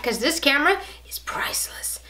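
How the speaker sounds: hushed, as if sharing a secret; whisper. Acted. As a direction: whisper it reverently. Hushed aside about the camera.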